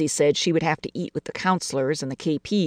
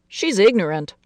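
father's voice; 4 semitones higher, 4 dB louder than usual. Acted. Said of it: "her father had said".

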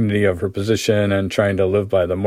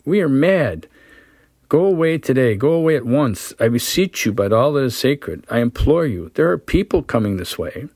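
frantic pleading; 4 semitones higher than usual. Acted. Anna pleading him to leave.

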